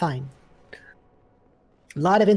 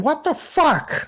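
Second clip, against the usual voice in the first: mock outrage; 9 semitones higher, slower than usual.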